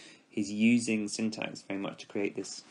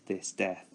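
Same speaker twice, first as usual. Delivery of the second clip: "this death," with both words heavily stressed; spondee, both stressed. Shown as a demonstration. Teacher showing students the spondee, both words heavy. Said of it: "the two heavily stressed syllables".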